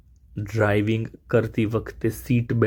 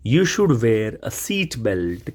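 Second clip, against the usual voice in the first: slow teaching read; much slower than usual. Shown as a demonstration. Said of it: "teacher models the sentence".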